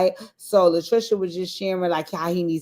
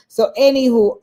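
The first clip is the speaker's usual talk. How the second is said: loud anywho; 6 semitones higher, 7 dB louder than usual. Real, not acted. Loud sing-song transition.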